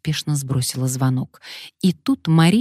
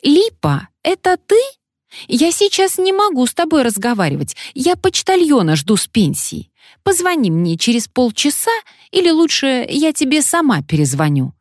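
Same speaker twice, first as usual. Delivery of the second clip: put-on high, loud old lady on the phone; old woman voice; 11 semitones higher, 4 dB louder than usual. A narrator's reading. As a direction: voice a fussy old granny. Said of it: "раздался старушечий голос".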